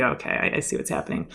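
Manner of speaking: whispered, knowing she's done for; whispered resignation; resigned whisper. Retold or imitated. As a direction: breathe it out under your breath. Realizing she's being fired.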